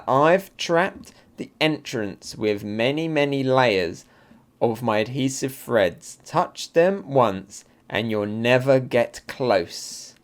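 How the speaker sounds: slow, deliberate reading of a villain's lines; villain's measured gloat. Acted. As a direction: draw out each threat unhurriedly. Reads villain's manga dialogue slowly.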